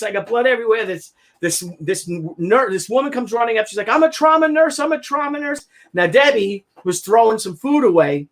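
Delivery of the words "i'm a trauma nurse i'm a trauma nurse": high, brisk announcing; urgent nurse. Retold or imitated. Nurse rushing to injured man, urgent high call. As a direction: push through the crowd to help.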